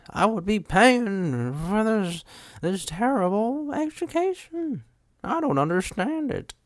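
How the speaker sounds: slow, very high put-on whine; hammed-up high-pitched griping; mock exasperation. Scholarship student complaining about a terrible education, mock exasperated.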